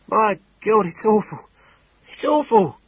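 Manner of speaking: high, loud, horrified repetition; overwhelmed by shock, wailing it out. Acted. Innkeeper in shock.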